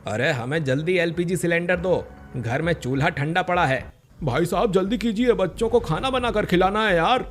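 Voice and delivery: pleading customers. Acted. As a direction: beg the agency for a cylinder. Crowd pleads at gas agency.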